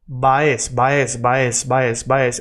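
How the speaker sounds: "va es" joined and repeated rhythmically; linking drill. Shown as a demonstration. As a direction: loop "va es" as one linked sound. Repetition drill linking two words.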